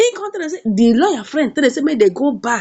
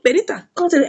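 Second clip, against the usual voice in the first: ordinary delivery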